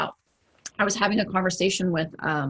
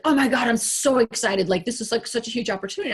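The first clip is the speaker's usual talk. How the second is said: imitating an excited client, a touch higher; client's excitement; 4 semitones higher than usual. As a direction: lightly play his eager rush. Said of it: "And he was like".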